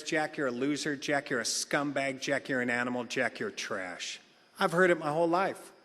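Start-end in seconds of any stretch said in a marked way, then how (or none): 0.0-4.2 contemptful scolding. Retold or imitated. Imagined contempt, building down.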